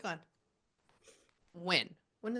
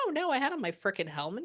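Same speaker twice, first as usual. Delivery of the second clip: quick, higher mock protest; imitating an indignant denial; 4 semitones higher, faster than usual. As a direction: protest it fast, mildly affronted. Spirit indignantly rejects being stupid.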